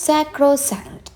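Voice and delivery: high, drawn-out "Sacrosanct", each syllable clear; pronunciation demo. Shown as a demonstration. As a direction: model "Sacrosanct" slowly for learners. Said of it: "എന്താ pronunciation എന്ന് നോക്കാം".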